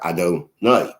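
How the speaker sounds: "Adonai" said plainly as ah-doh-NYE, stress on the last syllable; reverent pronunciation. Shown as a demonstration. Teacher shows students how the name is read, plain and steady. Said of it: "that's how we pronounce it".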